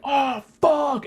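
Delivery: high, loud cry of pain; acted-out agonized yell; retold scream. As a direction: let the curse burst out in a high scream. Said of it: "I just started screaming".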